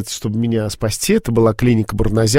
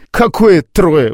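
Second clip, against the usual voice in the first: higher, louder and slow, mock disbelief; incredulous retort; 6 semitones higher, 6 dB louder, much slower than usual. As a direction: retell the doctors' amazed correction. Doctors correcting the count of children. (удивлённо, громко и медленно)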